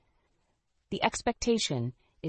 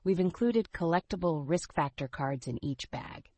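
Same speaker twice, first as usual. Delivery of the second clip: upbeat retro commercial read; chipper 1950s ad. Acted. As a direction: sell it like an old TV ad. Podcast ad segment.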